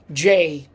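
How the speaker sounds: "J" the Italian way, like English J. Shown as a demonstration. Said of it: "we pronounce it as".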